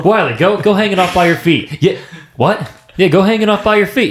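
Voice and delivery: Bobby's coach character. Retold or imitated. Retelling movie scene, quoting character.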